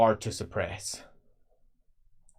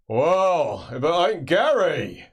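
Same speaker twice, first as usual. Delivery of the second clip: hearty greeting; 4 semitones higher, 5 dB louder, slower than usual. Acted. Absalom Trot greets Gary.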